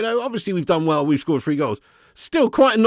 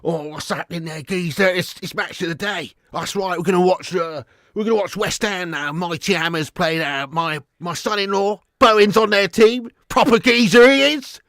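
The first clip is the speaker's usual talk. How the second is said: Danny Dyer impression. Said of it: "Danny Dyer".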